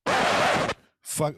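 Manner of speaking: a sudden breathy unvoiced curse, caught off guard; the word escapes in shock; startled curse. Retelling the phone call, cursing in disbelief.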